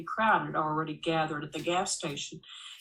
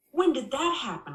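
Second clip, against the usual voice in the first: high, whiny protest; whining; 7 semitones higher, 3 dB louder than usual. Acted. Wife whines at David about his probation, high and whiny. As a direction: whine it like a hurt complaint. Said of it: "I whine".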